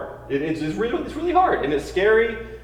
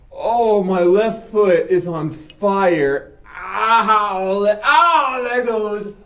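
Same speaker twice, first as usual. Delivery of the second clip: biting down on pain; 2 semitones higher, much slower than usual. Real, not acted. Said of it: "I'm in so much pain right now".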